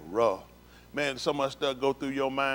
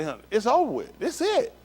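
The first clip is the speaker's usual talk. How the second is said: retold dread; 8 semitones higher, 3 dB louder than usual. Voices his despairing thought under gunpoint.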